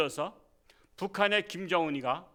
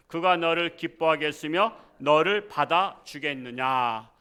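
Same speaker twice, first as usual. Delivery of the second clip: scripture reading; 4 dB louder than usual. Acted.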